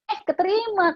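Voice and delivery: sudden high, bright burst of surprise; recalling the shock of being hired; surprised. Retold or imitated. Telling friends she got the office job, surprised.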